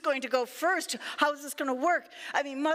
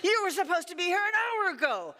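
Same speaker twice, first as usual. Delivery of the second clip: higher-pitched, indignant scolding; furious lion; 5 semitones higher than usual. Acted. Lion to a rabbit who came late, furious. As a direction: scold the latecomer as an outraged lion. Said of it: "The lion is furious".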